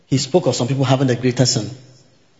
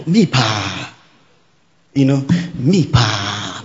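anguished leader; 3 semitones lower, much slower than usual. Retold or imitated. Voicing the fallen leader's disbelief.

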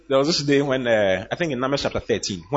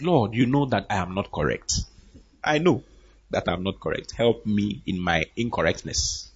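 humble publican; 6 semitones lower, 5 dB quieter than usual. Retold or imitated.

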